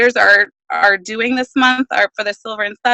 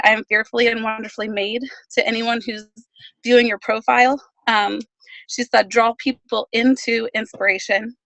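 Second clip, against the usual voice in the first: out of breath; 4 dB quieter than usual. Real, not acted. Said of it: "I'm out of breath from running to my car".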